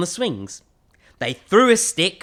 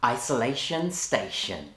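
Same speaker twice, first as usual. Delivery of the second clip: put-on overbright kids party host. Host greeting kids on video.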